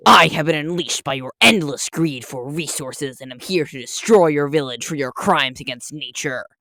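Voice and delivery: lightly voiced vengeful forest guardian; a hint of a booming Lorax; menacing nature spirit. Nature spirit threatens the village.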